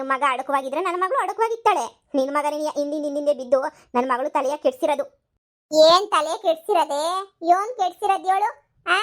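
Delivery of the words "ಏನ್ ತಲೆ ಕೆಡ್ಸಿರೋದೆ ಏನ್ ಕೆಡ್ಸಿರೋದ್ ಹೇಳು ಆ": sharp, loud challenge; heated comeback; angry retort. Acted. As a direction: throw the question back in her face. Quarrel, mother snaps back.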